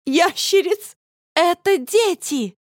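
намного выше, громче и медленно; кричи на срыве, истерично; истеричный крик. A narrator's reading. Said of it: "истерично закричала я". (дочь истерично кричит на мать)

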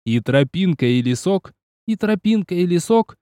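shouted chant, pitch jumping; yelled verse. Acted. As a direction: bellow it while jumping. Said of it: "Я прыгал и орал".

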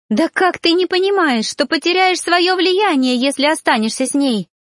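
high, pleading cry without real sobs; a touch of tearful begging; mild tearful plea to the man she loves; sobbing. A narrator's reading. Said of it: "зарыдала Сария".

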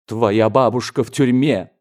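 loud, dramatic self-accusation; anguished theatrical outburst; tragic cry. A narrator's reading. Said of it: "трагическим голосом закричал дядя".

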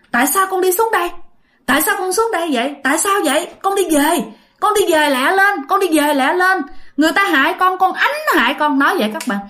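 lightly voiced parents pushing their child back home; urgent ghost parents. Dead parents urge their daughter to return to life, lightly voiced high urgent scolding. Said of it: "nói rằng á là".

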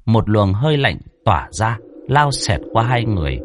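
ordinary delivery, nothing marked

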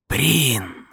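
high, drawn-out eerie call; disembodied voice calling. A narrator's reading. Unseen voice calls Brin's name, high and eerie.

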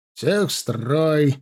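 slow barked order. Acted. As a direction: bark the order at the ranks. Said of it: "рявкнул Кравцов".

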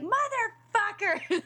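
drawn-out high yelled curse; retold scream. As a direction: yell it like you just fell in the shower. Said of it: "I am screaming my face off".

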